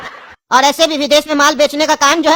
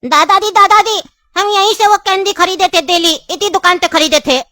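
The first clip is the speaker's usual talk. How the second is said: put-on higher, eager little boy's voice; child voice; 5 semitones higher than usual. Grandson calling his grandfather at the shop, childlike and high. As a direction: call out to grandpa like a small kid.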